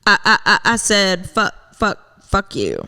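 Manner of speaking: stuttering on I and fuck; mock stutter. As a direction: stammer the opening words. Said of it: "I'd wanna stutter".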